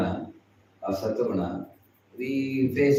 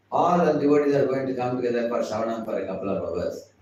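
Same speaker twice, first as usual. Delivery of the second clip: slightly raised announcing voice; making an announcement. Acted. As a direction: announce the plan to the whole group. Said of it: "then you make announcement".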